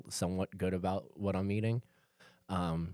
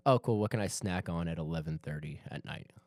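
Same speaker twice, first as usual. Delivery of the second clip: hair in mouth. Real, not acted. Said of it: "sorry, I got hair in my mouth".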